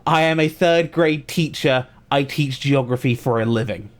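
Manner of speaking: lightly mocking a proud teacher; a hint of smug self-importance; quoting the teacher. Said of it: "and I quote".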